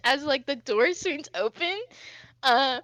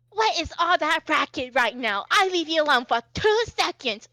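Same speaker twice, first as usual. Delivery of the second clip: louder, exasperated caretaker; scolding older lady; 2 semitones higher, 5 dB louder than usual. Acted. Older lady comes out to a racket, scolding. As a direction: scold the kids at raised volume. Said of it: "and the lady goes".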